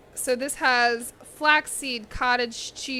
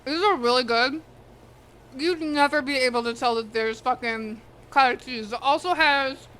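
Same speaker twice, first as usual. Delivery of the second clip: talking while chewing; words round a bite of food; mouth full. Real, not acted. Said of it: "I'm talking my mouth full".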